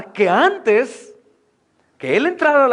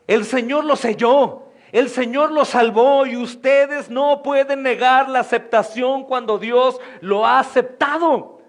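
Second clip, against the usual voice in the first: preaching shout; 3 semitones higher than usual. Real, not acted. Preacher to the Jewish Christians, slow, shouted insistence. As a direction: hammer each phrase home.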